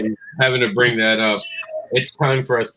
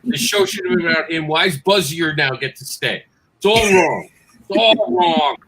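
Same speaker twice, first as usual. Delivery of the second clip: higher-pitched mock indignation; hammed-up wounded complaint, rising at the end; aggrieved protest; 5 semitones higher than usual. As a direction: plead the case like a wronged fan. Mock protest over Toy Story four.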